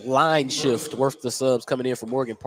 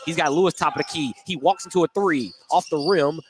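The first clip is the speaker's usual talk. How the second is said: brisk courtside call of the action; steady announcer's game call; live play-by-play; slower than usual. Acted. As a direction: call each pass as it happens.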